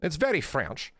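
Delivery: lightly put-on French accent. Streamer repeats the ending verdict, mock French accent. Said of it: "that's my French accent, chat".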